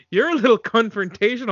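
"confrontational" with a punched, exaggerated first syllable; mock mispronunciation. Quoting her line, "confrontational" with its first syllable exaggerated. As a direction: lean hard on the start of "confrontational". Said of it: "What did she call him?".

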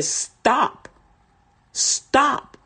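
mock yell of stop; loud call to stop. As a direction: call out stop to make people turn. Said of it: "I was saying it loud".

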